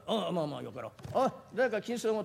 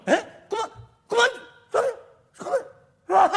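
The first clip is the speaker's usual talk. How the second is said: high, loud disbelieving cry; the merchant can't believe three hundred ryo; stunned merchant; 12 semitones higher, 7 dB louder, much slower than usual. Acted. (驚いて甲高く叫ぶ)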